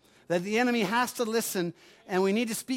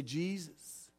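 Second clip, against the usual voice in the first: whispered plea building; 5 semitones higher, much slower than usual. Pretend. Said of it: "And you just say".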